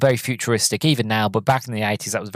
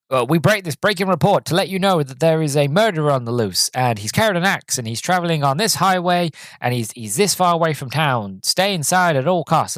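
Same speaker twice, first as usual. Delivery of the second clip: mock radio announcer; 5 semitones higher than usual. Retold radio news bulletin.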